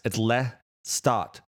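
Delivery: Cockney "le start", slow, T swallowed; Cockney accent. Shown as a demonstration. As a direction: slowly say "le start" with no T. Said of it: "There's no T in the word".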